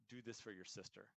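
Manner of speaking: heartfelt plea. Shown as a demonstration. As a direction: say it softly, like you mean it. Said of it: "It's a different voice".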